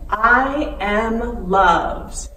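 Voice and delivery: slow, loud affirmation; loud and powerful. Shown as a demonstration. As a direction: proclaim it for the kids to repeat. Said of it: "loud and powerful".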